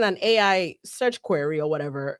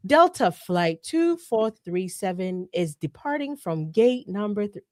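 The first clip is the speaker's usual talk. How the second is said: slow announcer voice; airport announcement; slower than usual. Retold or imitated. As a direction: read it like a gate announcement. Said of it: "You sounded like the airport".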